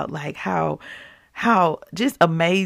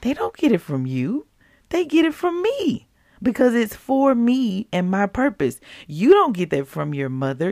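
firm, insistent correction building higher; corrective tone; 3 semitones higher than usual. Retold or imitated. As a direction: rebuke each excuse in turn. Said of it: "in a very corrective tone".

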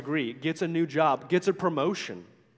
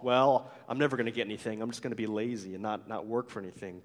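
slothful; 6 semitones lower, 4 dB quieter, faster than usual. Acted.

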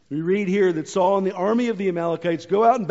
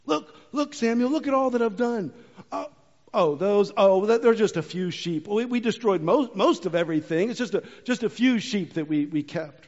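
sheepish excuses; 2 semitones higher than usual. Retold or imitated. Saul justifying to Samuel again.

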